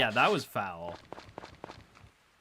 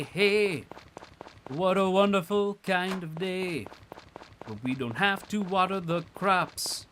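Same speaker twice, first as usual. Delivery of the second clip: cheery quip; 4 semitones higher, 4 dB louder than usual. Pretend. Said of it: "And I say".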